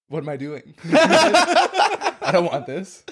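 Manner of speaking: high, laughing mock panic. Friend retelling his own panic, laughing mock dismay. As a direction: play the regret with a laugh.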